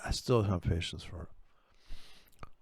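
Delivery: slow, whispered grumble under the breath; low-energy whispered complaint; impatient whisper. Real, not acted. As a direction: mutter it to yourself, fed up.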